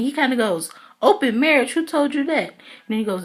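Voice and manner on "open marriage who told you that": incredulous. Retold or imitated. Retold incredulous question.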